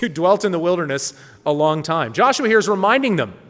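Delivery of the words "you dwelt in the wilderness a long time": laughing through the verse; chuckling at the understatement; amused repeat. Real, not acted. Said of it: "Maybe a little bit of a understatement".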